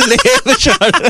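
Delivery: high, drawn-out mock of the coach; mocking through laughter. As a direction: stretch it out while cracking up. Laughing at coach's mispronounced term. (ਹੱਸਦੇ ਹੋਏ ਲਮਕਾ ਕੇ ਨਕਲ)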